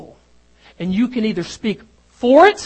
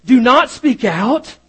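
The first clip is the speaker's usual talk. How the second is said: "Do not speak out" said slowly and louder, leaning on "not"; emphatic quote; 5 dB louder, slower than usual. Retold or imitated. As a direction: lay down the forbidding words, slow and firm. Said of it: "is what they would say".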